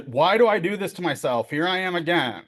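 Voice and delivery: acted exasperation at yourself; self-berating. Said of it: "we're kind of berating ourselves".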